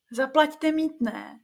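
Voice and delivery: high, slow, eerie demand; a forest creature demanding a toll, slow and high; high wild-woman voice. Acted. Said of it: "řekla vysokým hlasem divoženka".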